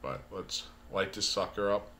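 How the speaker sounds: talking around cigar; cigar in mouth. Real, not acted. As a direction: lips pressed on cigar. Seen 0: Cigar held to lips while speaking; later lit in mouth.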